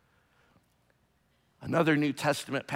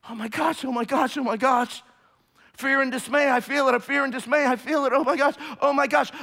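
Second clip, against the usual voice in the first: mock panic; 12 semitones higher, 8 dB louder, faster than usual. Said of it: "your knees are knocking".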